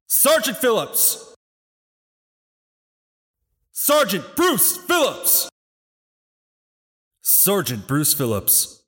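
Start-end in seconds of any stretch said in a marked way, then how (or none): 0.0-1.3 stiff barking toy soldier. Acted. Colonel calls roll at funeral. 3.7-5.5 stiff barking toy soldier. Acted. Final roll call for the fallen.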